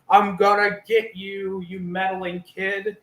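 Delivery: hammed-up vow of revenge; mock threat. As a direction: drag it out like a cartoon villain foiled. Voices Tommy threatening Michael.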